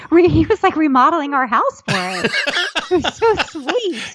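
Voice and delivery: high, helpless laughter through the words; laughing gush. Real, not acted. Wife telling of husband remodeling the house, laughing fondly. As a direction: squeak it out while laughing, softening at the end.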